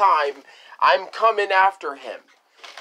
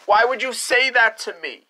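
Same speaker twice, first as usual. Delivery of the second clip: put-on hurt kid; 4 semitones higher than usual.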